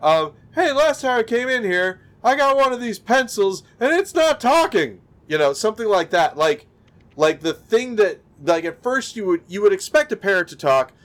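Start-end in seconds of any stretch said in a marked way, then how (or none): 0.6-5.0 high, aggrieved complaint; a customer griping about a talking pencil; lightly voiced annoyed shopper; indignant customer. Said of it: "I would say is".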